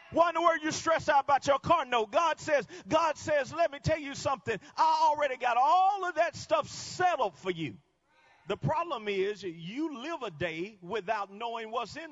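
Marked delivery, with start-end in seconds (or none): 0.1-7.8 loud, high, driving sermon shout; full-force preaching. Acted. Preacher rousing the congregation, full-force preaching shout. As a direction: preach it out to the rafters.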